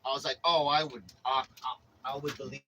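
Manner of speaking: hammed-up nervous "I would believe"; nervous stammer. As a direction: play it as frightened agreement, tripping over words. Stammering reply to hitman threat.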